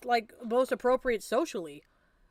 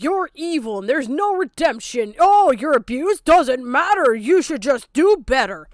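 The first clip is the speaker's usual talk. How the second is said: loud, slow sneering quote of critics; mocking impression; 9 dB louder than usual. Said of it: "They genuinely will be like".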